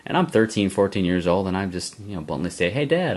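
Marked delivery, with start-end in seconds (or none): 2.7-3.2 calling out high across the fairway; retold yell. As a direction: shout to dad far away, pitched up. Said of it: "I'm yelling to him across the fairway".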